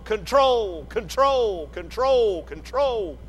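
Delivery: lightly voiced calm pilot announcement, fading on the repeats; soothing. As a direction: reassure the panicking passengers, understated. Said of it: "a voice came on soothingly and said".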